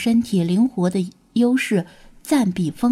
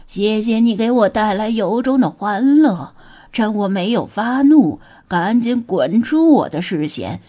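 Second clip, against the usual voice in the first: roaring; 3 dB louder than usual. Acted. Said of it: "咆哮道".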